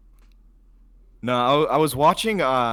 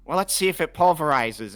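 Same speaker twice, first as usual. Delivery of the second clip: louder, higher dopey Sandler voice; goofy Adam Sandler voice; 5 semitones higher, 6 dB louder than usual. Retold or imitated. Imagining Sandler's blender movie, goofy curious voice. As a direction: play the curious dope at the blender. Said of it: "he's like".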